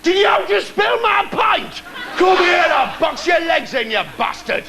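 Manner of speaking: high-pitched Geordie indignation; mock pub challenge. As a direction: pick a fight over a pint, hammed-up. Picks a pub fight in character.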